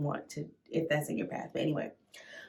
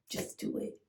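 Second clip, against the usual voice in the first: breathy whisper of self-encouragement; soft whispered pep talk; whispered to herself; 10 dB quieter than usual. Retold or imitated. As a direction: whisper it to yourself to get brave.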